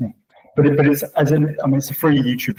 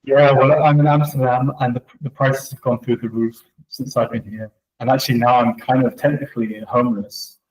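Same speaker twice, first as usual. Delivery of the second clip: echoey empty room; talking in a bare echoing room; room reverberation. Real, not acted. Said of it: "You probably hear the re-, reverberation in this room".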